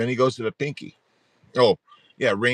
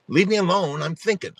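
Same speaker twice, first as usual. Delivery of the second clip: higher, mock-irritated child; annoyed child; 5 semitones higher, 3 dB louder than usual. Daughter with thumb in mouth to parent, mock annoyed. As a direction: imitate a kid who wants no interruption. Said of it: "like she was annoyed that I was interrupting her".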